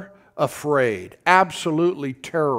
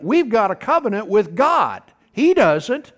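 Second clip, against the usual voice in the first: fervent; 6 semitones higher, 5 dB louder than usual. Acted. Preacher voicing David's conviction.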